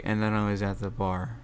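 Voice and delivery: quiet, monotone mock testimony; dull witness. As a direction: read it like a bored witness. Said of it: "They don't really give a whole lot of points".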